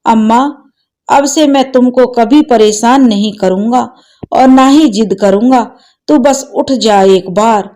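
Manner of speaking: a touch of tearful promising; crying. Acted. Son promises dead mother to behave, mildly tearful. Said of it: "रोते-रोते कहने लगा".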